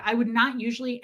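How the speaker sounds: ordinary talk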